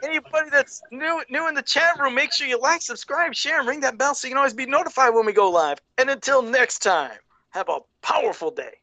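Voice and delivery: high, rolling sign-off patter; host's sing-out sign-off; channel outro spiel. Real, not acted. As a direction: reel off the subscribe plug, then land the farewell.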